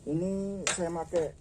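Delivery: speaking through a face mask; muffled by a face mask. Real, not acted. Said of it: "Ini saya pakai masker jadi agak susah untuk ngomong".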